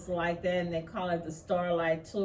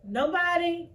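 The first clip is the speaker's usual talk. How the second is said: higher, louder cry of indignation; indignant outburst; 7 semitones higher, 5 dB louder, slower than usual. Real, not acted. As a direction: let the disbelief burst out. Indignant about no intervention.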